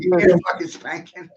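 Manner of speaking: dad threatening a crying son with a spanking, loud; angry dad threat. Retold or imitated. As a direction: bark it like a fed-up dad. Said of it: "my daddy's like".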